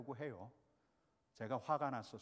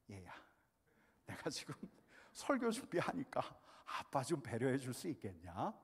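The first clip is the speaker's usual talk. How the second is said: put-on gentle request to child. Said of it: "이렇게 부탁을 하고 있더라고요".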